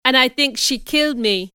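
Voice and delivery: lightly acted wounded man; understated plaint of an injured man; weak. A narrator's reading. Wounded Mason fears he is dying, weak. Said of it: "Mister Mason replied weakly".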